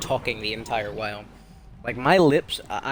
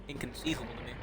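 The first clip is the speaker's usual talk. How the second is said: whispered aside; 12 dB quieter, much faster than usual. Real, not acted. Muttered aside to self.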